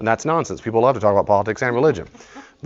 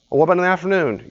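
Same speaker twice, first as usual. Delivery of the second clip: higher, bright suggestion; helpful friend; 8 semitones higher, 4 dB louder, faster than usual. Retold or imitated. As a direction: keep suggesting, upbeat.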